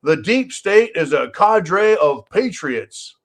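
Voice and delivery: slow, sneering mock quote of a politician. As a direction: drag it out like you don't believe a word. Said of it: "as jackass, uh, Steny Hoyer says".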